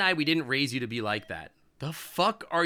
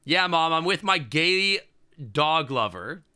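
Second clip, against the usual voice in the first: defiant mock reply; 3 semitones higher, 4 dB louder, slower than usual. Voicing the character's defiant reply.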